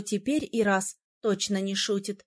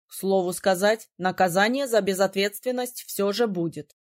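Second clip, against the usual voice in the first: a hint of a surprised young man; lightly voiced prince. A narrator's reading. Prince Iras interrupting the heroine, lightly lowered voice.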